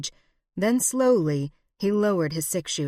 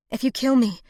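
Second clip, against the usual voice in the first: higher, louder defiant outburst; defiant cry; 7 semitones higher, 5 dB louder than usual. Acted. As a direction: fling it at her captor. Hostage defies her captor.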